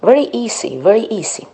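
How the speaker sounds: high, bright-toned reassurance to the student; encouraging. Real, not acted. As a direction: cheer the learner on. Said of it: "teacher encouragement".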